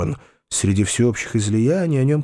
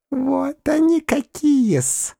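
high, slow, piping flattery; a toady's thin squeak; squeaky fawning; 13 semitones higher, much slower than usual. Acted. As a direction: spinster squeaking praise of Foma, high and slow. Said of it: "пропищала ... девица Перепелицына".

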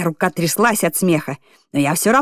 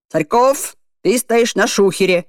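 bossy command; 4 semitones higher than usual. Acted. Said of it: "скомандовал Сутягин".

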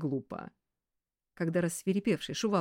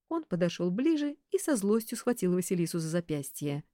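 ordinary delivery

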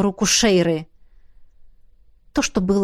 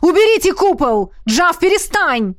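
громкий медленный крик выше обычного; ори, колотя по куполу; 7 semitones higher, 4 dB louder than usual. Acted. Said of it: "орал Родерик". (Родерик орёт на Джафа сквозь купол)

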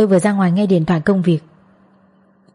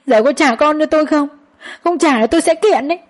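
higher, tearful, desperate threat; crying while speaking; 6 semitones higher than usual. Acted. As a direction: threaten through tears. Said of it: "vừa khóc vừa nói". (vừa khóc vừa đe dọa)

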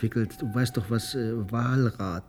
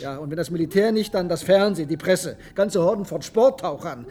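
heated rant; 5 semitones higher than usual. Acted. Hitziger Streit.

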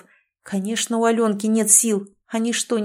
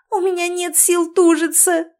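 much higher, thin squeak; squeaky; 10 semitones higher than usual. A narrator's reading. Exhausted wife squeaks to the nurse, much higher. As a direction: squeak it out weakly. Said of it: "пропищала Алёнка".

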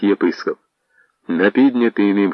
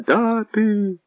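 approving shout; 14 semitones higher, much slower than usual. Acted. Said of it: "схвально одізвалися сотні голосів".

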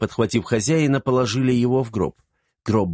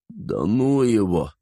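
dismissive; slower than usual. Acted. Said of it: "отмахнулся Ибрагим".

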